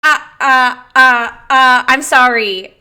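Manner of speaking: loud, overcome, sounds first then words; tearful. Real, not acted. Coach moved by a client's squat depth, tearful and loud. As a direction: apologise through happy tears. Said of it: "I'm really crying".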